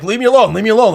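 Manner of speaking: high, loud irritated brush-off; mock angry. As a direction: snap at the table like a grumpy drunk. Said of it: "you get all mad".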